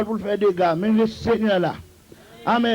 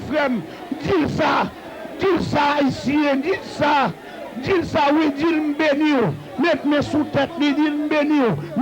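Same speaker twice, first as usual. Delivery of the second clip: full-force preaching. Real, not acted. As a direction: drive the congregation to bless, pitch climbing.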